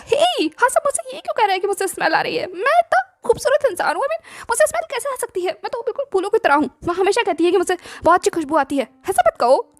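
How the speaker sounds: high, whiny voice of a vain pretty man; vain whining complaint. Acted. Ebo protesting that he smells like flowers, high and pouty.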